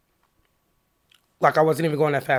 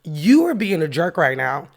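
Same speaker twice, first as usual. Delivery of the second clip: louder, mildly heated accusation; retold upset; 5 dB louder than usual. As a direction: call him out, a touch worked up. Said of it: "so I'm getting upset".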